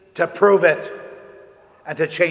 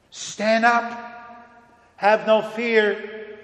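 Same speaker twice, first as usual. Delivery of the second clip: rousing Jesus; 2 semitones higher than usual. Acted. Jesus urging Peter to stand, rising and stirring. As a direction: lift him to his feet with bold promise.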